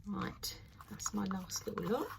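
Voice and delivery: soft unvoiced whisper. Real, not acted. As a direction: breathe it out under your breath. Whispering while pouring resin.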